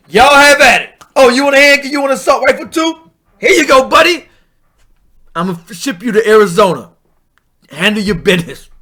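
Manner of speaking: hammed-up sarcastic salesman; mock cheerful handout. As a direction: hand it over with fake glee. Mock governor handing out guns.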